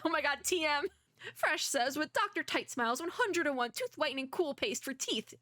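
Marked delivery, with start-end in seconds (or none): 2.0-5.3 lightly hammed-up commercial pitch; slightly higher, mock advertising read. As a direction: pitch it like a product ad, a bit high. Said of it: "here we go with the ad".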